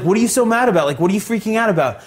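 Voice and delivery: high-pitched feigned innocence; retold indignant questioning; acted baffled protest. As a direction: protest loudly as if clueless. Playing innocent to an angry teacher.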